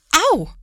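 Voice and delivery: loud, high yelp of pain; sudden sharp ouch; cry of pain. A narrator's reading. Mother bumps into a chair. (lauter Schmerzensschrei)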